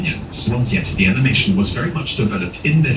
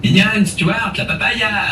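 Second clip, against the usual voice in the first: high, squeaky Minion babble; high squeaky cartoon gibberish; 10 semitones higher, slower than usual. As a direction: chirp it like a little yellow Minion. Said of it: "If you listen to the Minions speak".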